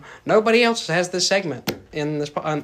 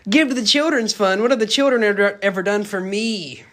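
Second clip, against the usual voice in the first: higher, louder stingy crab boss, slowing at the end; Mister Krabs; 4 semitones higher, 4 dB louder than usual. Retold or imitated. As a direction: ham up the cheapskate boss. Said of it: "Is that Mister Krabs?".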